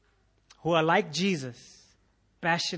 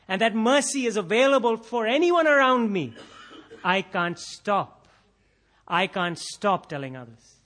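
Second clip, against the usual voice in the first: higher, louder awed gratitude; grateful believer; 6 semitones higher, 6 dB louder than usual. Retold or imitated. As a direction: marvel at undeserved mercy. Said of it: "our attitude is like".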